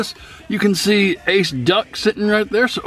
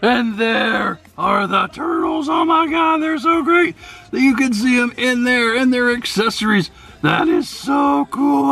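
excited; 7 semitones higher than usual. Real, not acted. Unboxing the figures, gushing.

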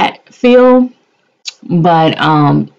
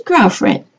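bossy demand; 6 semitones higher than usual. Retold or imitated. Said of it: "I called Angela up and I said".

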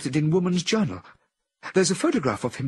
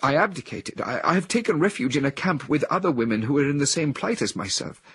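higher, louder, anguished woman; a woman in a trance, full of anguish; 7 semitones higher, 3 dB louder than usual. A narrator's reading. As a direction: confess her shame and despair. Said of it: "continued in anguish".

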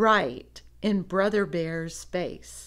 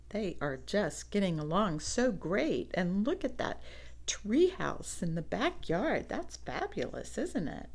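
hushed aside; 7 dB quieter than usual. Real, not acted.

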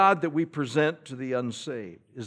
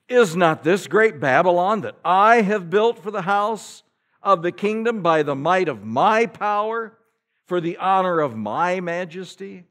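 boastful king, louder; proud king; 5 semitones higher, 8 dB louder than usual. Retold or imitated. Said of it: "the king spake and said".

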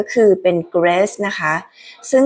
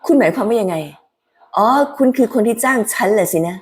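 Haley's higher voice; 3 semitones higher than usual. Acted. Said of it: "เสียง Haley ก็จะสูงขึ้น".

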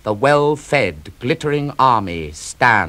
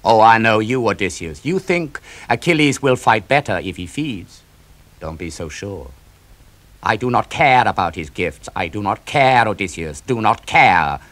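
louder, punching each CARE; defiant anger; 3 dB louder than usual. Acted. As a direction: hammer out the refusal. Achilles rejects Odysseus angrily.

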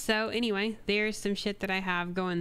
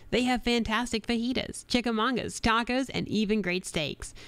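radio ad read. Acted. Records second ad take.

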